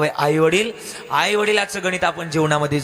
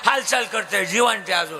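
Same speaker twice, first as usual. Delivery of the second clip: put-on excited drunk; 5 semitones higher than usual. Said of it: "त्याच्यातलं एक म्हटलं".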